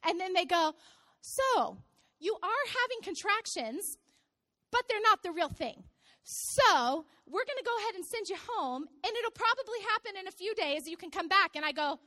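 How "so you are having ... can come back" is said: a hint of breaking it gently to a patient; lightly voiced hospital staff. Staff sending mother-to-be home, lightly acted explaining.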